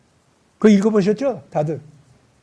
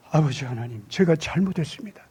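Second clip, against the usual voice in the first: soft, lower repentant plea; Job's humble confession; 4 semitones lower, 5 dB quieter than usual. Acted. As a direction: confess it softly, head bowed. Job repents before God. (하나님께 잘못을 비는 욥, 낮고 조용하게)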